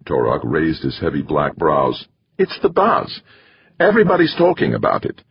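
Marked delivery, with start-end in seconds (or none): 2.4-5.2 put-on high, quick foreign-accented man; Torok's accented voice. A narrator's reading. Torok shrugging off the rumour to Carlton, accented. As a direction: toss off the gossip in an accent.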